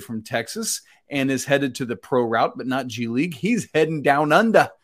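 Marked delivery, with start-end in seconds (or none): 3.3-4.7 attempted Aussie accent, slightly louder; bad Australian accent. Co-host announcing a player's move down under, in a shaky Australian accent. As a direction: have a clumsy go at sounding Australian. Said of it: "Is that, was that Australian?".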